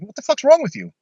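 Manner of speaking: high-pitched mock yell at normal volume; retold yell. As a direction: replay an exasperated yell without full volume. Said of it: "I yelled at her".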